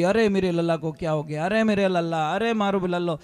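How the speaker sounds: imitated wailing. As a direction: wail like a distraught old mother. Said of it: "रोने लगी". (रोती माँ का नकली विलाप)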